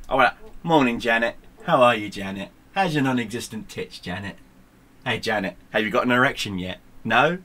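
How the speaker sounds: mocking taunt.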